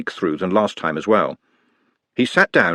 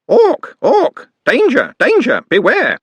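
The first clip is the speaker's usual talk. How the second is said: piercing high screamed alarm; 7 dB louder, slower than usual. A narrator's reading. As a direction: shriek the warning like a bird. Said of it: "opened its mouth and screamed".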